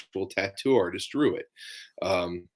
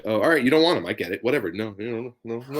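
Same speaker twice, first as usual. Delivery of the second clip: words dropping out over a bad line; choppy connection; faster than usual. Real, not acted. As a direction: voice cutting in and out. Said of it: "you're coming in choppy there".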